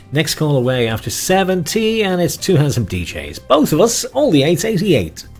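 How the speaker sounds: high, loud bingo call; bingo caller. Acted. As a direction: sing out the number to the hall. Calling the bingo numbers.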